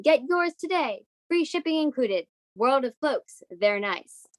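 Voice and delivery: put-on cheery old radio ad read; peppy sales pitch, lightly done; chipper 1950s ad. Mock commercial for invisible cloak.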